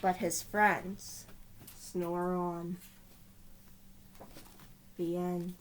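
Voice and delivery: put-on lively read-aloud voice for children; storybook narration. A narrator's reading. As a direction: tell it like a bedtime picture book. Reading picture book aloud.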